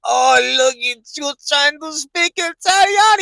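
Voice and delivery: high, loud, slow excited waiter; excited Italian waiter. Retold or imitated. The waiter marvels at the American's Italian, high and loud. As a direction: stretch it out, thrilled, like a waiter. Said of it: "He's like".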